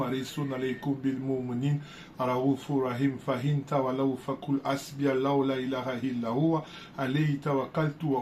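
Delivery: a lightly recited Arabic verse; Quranic recitation. Acted. Recites Surah Tawba verses.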